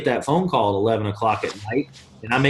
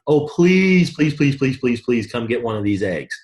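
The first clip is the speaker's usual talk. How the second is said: mock begging. Coach mocking a desperate recruiter, hammed-up whiny begging. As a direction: ham up a desperate beggar, then let it die down. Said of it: "You ain't begging anybody".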